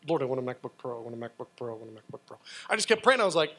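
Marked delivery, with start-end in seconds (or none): 0.1-2.4 softer and softer private plea; quiet pleading prayer. Retold or imitated. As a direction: lower and fading to near nothing.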